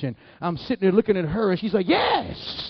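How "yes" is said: very high mock squeal of encouragement; ecstatic cheering. Church mother urging on child speaking tongues, ecstatic.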